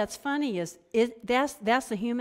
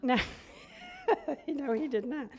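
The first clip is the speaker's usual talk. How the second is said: laughing denial; 6 semitones higher than usual. Real, not acted. Laughs at own joke.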